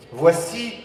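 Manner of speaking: announcer call-out. Real, not acted. Emcee calls for applause.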